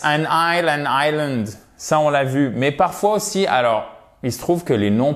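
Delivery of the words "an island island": "island" said "EYE-land"; silent S. Shown as a demonstration. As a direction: say "island" with no S sound. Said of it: "Donc le S".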